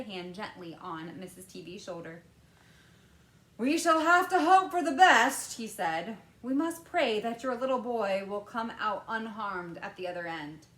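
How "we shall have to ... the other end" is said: louder, higher hopeful Wonka; lightly voiced comforting Wonka. A narrator's reading. Wonka comforting the mother, a touch solemn. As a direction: reassure the mother gently.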